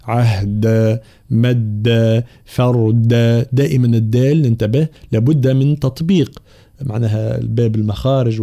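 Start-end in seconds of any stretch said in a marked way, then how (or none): 0.0-3.1 عهد، مد، فرد with a firm voiced d; measured word list, each dal distinct; fully realised dal. Shown as a demonstration. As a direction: articulate the d clearly in عهد، مد، فرد. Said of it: "الانتباه إلى تحقيق طبعًا حرف الدال".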